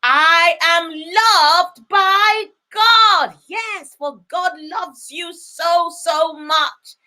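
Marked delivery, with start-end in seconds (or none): 0.0-3.4 with conviction. Shown as a demonstration. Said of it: "make sure you shout it with so much conviction".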